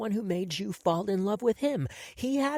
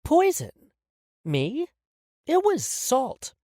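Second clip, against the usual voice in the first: higher, mock-innocent surprise; faked confusion; 12 semitones higher, 4 dB louder, slower than usual. Calliope feigns confusion about the poison, mock surprise. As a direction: play dumb innocently. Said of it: "faking confusion".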